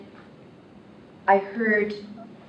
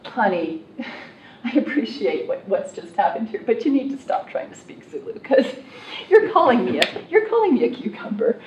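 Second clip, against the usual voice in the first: amused honey; 3 semitones higher, 4 dB louder than usual. Retold or imitated. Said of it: "she just started laughing at me, and she said".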